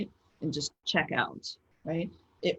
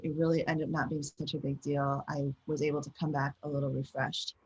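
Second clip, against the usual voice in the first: calm self-talk; 2 semitones lower, 3 dB quieter than usual. Shown as a demonstration. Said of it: "say something like".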